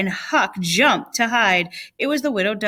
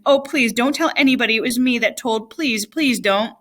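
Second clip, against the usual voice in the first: pleading exclamation; 3 semitones higher than usual. Acted. Frightened boy begging the Welshman not to tell, pleading. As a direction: beg him not to tell. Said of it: "Huck sprang up and exclaimed".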